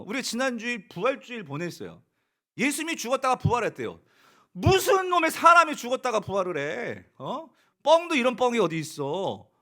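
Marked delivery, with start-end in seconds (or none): 4.5-9.5 loud scornful disbelief; scoffing ridicule. Retold or imitated. The world scoffing at resurrection, loud ridicule. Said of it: "세상은 그렇게 조롱을 합니다".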